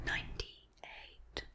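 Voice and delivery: slow, very soft whisper right into the ear; hearing-test whisper. Shown as a demonstration. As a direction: breathe the number slowly into one ear. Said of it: "I'm just going to whisper into each ear".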